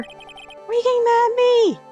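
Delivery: high, loud, indignant; indignant shout. Acted. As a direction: yelp it, offended. Judge shouting at bailiff.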